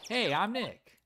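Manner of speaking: high-pitched repeat greeting; chirpy test call. Acted. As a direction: call it out high, testing a microphone. Second test call to camera.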